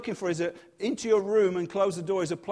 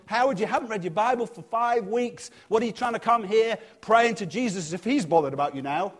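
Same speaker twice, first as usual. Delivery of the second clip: accusing inner voice; 5 semitones higher, 4 dB louder than usual. Retold or imitated.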